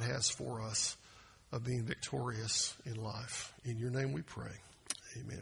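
soft, falling prayer voice. Acted. Pastor praying before the sermon, hushed.

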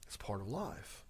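hushed aside; whispered aside. Acted. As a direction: let it fall away to a whisper. Aside remark.

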